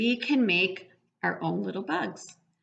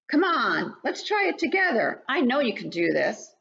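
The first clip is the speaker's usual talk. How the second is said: higher, gently urging voice; coaxing parent bug; 5 semitones higher than usual. Acted. Parent bug urges the baby to fly, coaxing. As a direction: coax the little bug to try.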